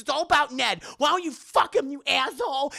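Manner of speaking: angry outburst. Retold or imitated. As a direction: throw the accusation at him. Liz snapping at him.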